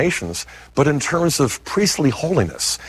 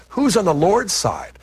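higher, drawn-out retold call; slow, high-pitched quoted call, not shouted; retold cry; 7 semitones higher than usual. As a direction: cry it out slowly as a retold challenge. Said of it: "cries out".

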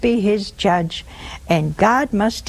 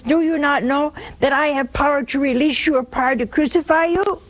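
quick, higher-pitched challenge, rising at the end; Pilate; 5 semitones higher, faster than usual. Retold or imitated. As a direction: question the prisoner as one who holds power. Acting out Pilate questioning Jesus.

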